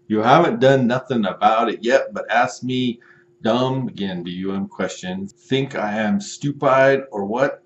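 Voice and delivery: hammed-up outrage at the runaround; mock furious customer. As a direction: buyer ranting at the seller, hammed-up fury. Customer message continued.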